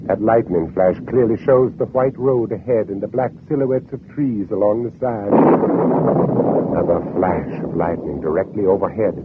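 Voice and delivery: tense, measured narration over music; hushed suspense narration of an escape; radio drama narration. Acted. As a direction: pull the listener into the fear.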